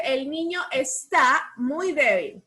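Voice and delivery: El niño está muy débil read slowly with stress on muy; teacher dictating to the class; slow dictation. Shown as a demonstration. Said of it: "¿Dónde llevará tilde?".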